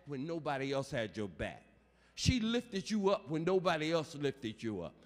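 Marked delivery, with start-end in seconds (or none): 2.1-4.9 loud, high, building shout; climactic preaching. Real, not acted. Preacher proclaiming resurrection to mourners, shouting high. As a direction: whoop it up to the climax.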